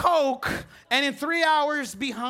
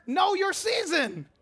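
preached shout; 6 semitones higher, slower than usual. Shown as a demonstration. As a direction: shout it slowly for the neighbor to repeat. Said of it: "Tell your neighbor".

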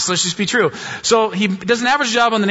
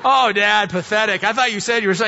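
lightly voiced, higher mock taunt; a hint of a mocking thirteen-year-old; teasing daughter; 4 semitones higher than usual. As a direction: needle dad like a smug teen. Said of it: "just taunting me the whole time".

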